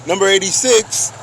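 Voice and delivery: mock announcer call. Calling out a number.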